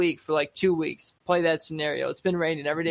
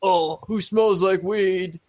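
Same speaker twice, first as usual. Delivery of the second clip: slow, louder disapproving Karen; snooty Karen; 4 dB louder, slower than usual. Retold or imitated. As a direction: drawl it like a fussy Karen. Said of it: "that Karen that's like".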